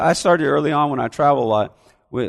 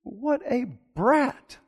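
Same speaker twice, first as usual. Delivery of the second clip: higher, slow scornful aside; inner scornful verdict; 6 semitones higher, 6 dB quieter, slower than usual. Acted. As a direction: drop the politeness and say what you really think. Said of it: "I'm gonna say".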